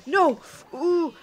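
real gaming panic. Real, not acted. Gamer cries out as his character is about to die. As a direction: beg not to die in the game.

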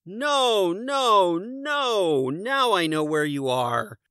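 high, loud no no no; exasperated shout. A narrator's reading. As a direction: shout it out, fed up. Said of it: "Boris shouted".

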